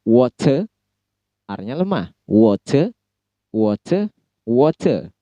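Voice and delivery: "water" with a clear T and weak R; crisp T in "water", R dropped; British water. Shown as a demonstration. Teacher demonstrating British "water" pronunciation. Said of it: "Britishnya T-nya jelas".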